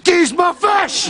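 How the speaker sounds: high, slow drawn-out demand; slow high-pitched pleading demand; whiny demand. Acted. Final demand for the fish.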